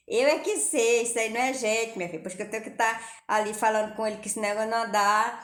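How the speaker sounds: resposta mais alta, irritada; irmã retrucando brava. Retold or imitated. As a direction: imitando a irmã indignada. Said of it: "ela só olhava assim pra mim". (irmã retrucando, mais alto e brava)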